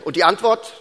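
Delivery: laute, strenge Prüferfrage; ganz streng. Retold or imitated. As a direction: fordere die Antwort streng ein. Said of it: "ich sagte ganz streng". (nachgespielte Strenge, laut abgefragt)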